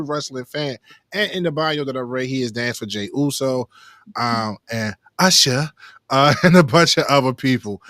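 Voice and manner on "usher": The singer's name slow and stretched, falling at the end; drawn-out name. Real, not acted. Host naming who he danced for, drawn-out singer's name. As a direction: draw out the singer's name with relish. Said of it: "You gotta say it like that"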